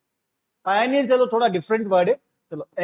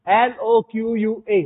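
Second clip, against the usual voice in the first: slow letter-by-letter spelling, louder; spelling out slowly; 4 dB louder, much slower than usual. Shown as a demonstration. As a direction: spell each letter out slowly and clearly for the class. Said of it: "word याद रखना". (धीरे-धीरे, ज़ोर से एक-एक अक्षर बोलना)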